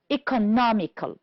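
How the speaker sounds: "economical" stressed on NOM; stress on third syllable. Shown as a demonstration. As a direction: model "economical" with the weight on NOM. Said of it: "stressed on the third syllable".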